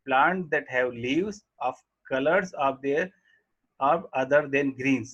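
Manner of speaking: reading the English line very slowly; slow textbook reading. Acted. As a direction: dictate each word to the class. Reads textbook line aloud slowly. (पाठ्यपुस्तक से धीरे-धीरे पढ़ना)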